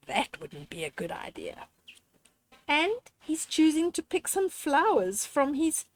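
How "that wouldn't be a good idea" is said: soft disapproval. Acted. Disapproving of stealing.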